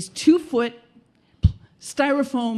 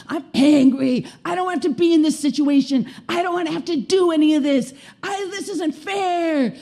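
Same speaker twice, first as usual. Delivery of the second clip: acted tantrum, building higher; venting anger; 4 semitones higher than usual. Client beating a futon with bats, acted angry venting. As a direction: protest like an outraged child.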